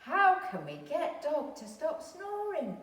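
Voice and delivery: pleading cat. Acted. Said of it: "said Cat".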